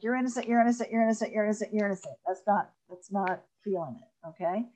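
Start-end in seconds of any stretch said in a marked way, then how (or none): 0.0-2.2 rushed rattled-off repetition. Shown as a demonstration. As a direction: rattle it off without feeling. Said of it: "you don't want to say it like".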